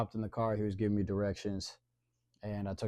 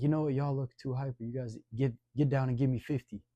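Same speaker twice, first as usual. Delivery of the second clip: loud, high barked order like a drill instructor; drill sergeant; 5 semitones higher, 8 dB louder than usual. Retold or imitated. Shabazz ordering hyper kids to drop for push-ups, drill-sergeant loud. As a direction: command them like a gym coach.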